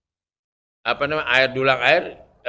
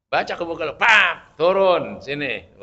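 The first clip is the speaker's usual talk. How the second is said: mock challenge; 4 dB louder, slower than usual.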